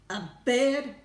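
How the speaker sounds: very loud, high bark. A narrator's reading. President incredulous at the astronaut's report, barking. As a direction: bark it in disbelief. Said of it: "barked the President".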